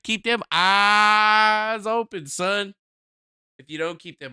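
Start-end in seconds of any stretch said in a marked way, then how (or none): 0.0-2.7 slow stern advice. Acted. Slow drawn-out repeat.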